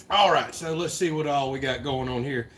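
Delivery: breathing heavy, winded. Real, not acted. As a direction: talk while catching your breath. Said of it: "I'm out of breath".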